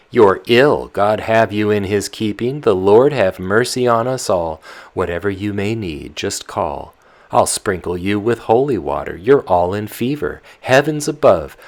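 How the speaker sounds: put-on loud, fast, fretting old nurse; old nurse in a fluster. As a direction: rush about fussing over the fevered girl. Nurse frets over sick girl.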